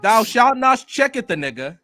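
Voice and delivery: solemn preacher addressing the congregation; hammed-up funeral sermon voice; eulogy for a fan let down by Tokyo Ghoul; mock preacher eulogy. Reading mock scripture.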